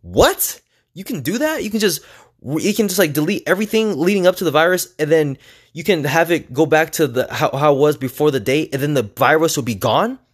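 high, astonished questioning; can't believe it's that easy, pitch up; amazed disbelief. Real, not acted. Vlogger telling viewers about the reset trick, amazed and high.

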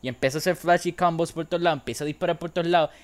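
fast, rising hype; excited. Acted. Hyping up Dante's combos.

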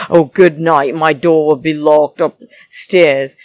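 mock pointed goodnight called out; calling out. Christmas calling to Devon that her door will be locked, loud. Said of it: "Christmas has to call out and say".

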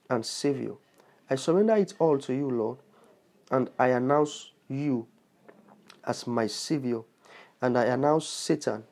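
prayer rushed, short pauses between lines; hurried prayer for listeners to repeat; too fast. Shown as a demonstration. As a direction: lead the prayer line by line too quickly. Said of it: "you were too fast".

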